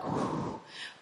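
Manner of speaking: soft, short puff of breath; light smoke exhale. Shown as a demonstration. Comic showing her old smoking, soft exhale. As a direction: blow out a little smoke. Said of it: "like when I used to smoke".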